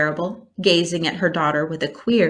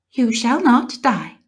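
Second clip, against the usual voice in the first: briskly; 6 semitones higher, 4 dB louder than usual. A narrator's reading. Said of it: "said Charlotte briskly".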